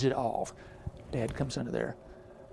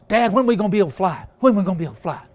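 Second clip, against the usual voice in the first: eaglet asking; 4 semitones higher, 8 dB louder, much faster than usual. Acted. Eaglet pleading with dad.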